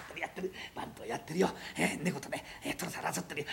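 quiet eavesdropping aside; hushed commentary. Acted. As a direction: whisper while spying on the fight. Whispering while peeking at fight.

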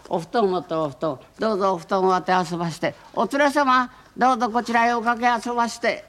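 landlady bustling to welcome guests; lightly voiced landlady. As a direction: greet the customers eagerly. Boathouse landlady greets guests.

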